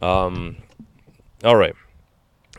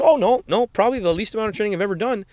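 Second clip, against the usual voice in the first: much higher, quick, breezy reply; imitating the fighter; 11 semitones higher, faster than usual. The fighter boasting to a fan about barely training, breezy. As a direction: toss it off with cheeky pride. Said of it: "And you're like".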